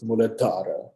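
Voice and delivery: "Muladhara" with a small breathy H after the D; "Muladhara" said with the dh aspirated; correct pronunciation. Shown as a demonstration. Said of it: "can you hear that little bit of an H".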